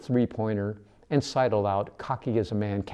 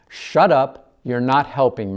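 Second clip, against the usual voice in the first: angry snap; 3 semitones higher, 8 dB louder, slower than usual. A narrator's reading. Mercy silencing the narrator, angry snap. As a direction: cut him off hard.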